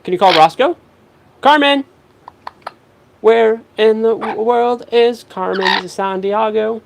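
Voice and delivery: high, loud, bouncy talk to a parrot; excited pet talk. Acted. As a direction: hype up the bird like it's a party. Hyping up the parrot for walnut.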